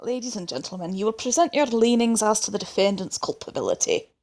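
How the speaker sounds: put-on Scottish accent. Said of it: "it's just gonna go Scottish".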